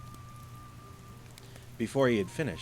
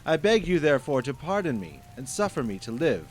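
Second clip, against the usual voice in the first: desperate begging; 6 semitones higher, 7 dB louder than usual. Acted. Merchant begs for life.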